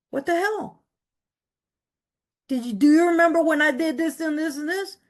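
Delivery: high, exasperated disbelief; chewing God out in disbelief; incredulous rant. Retold or imitated.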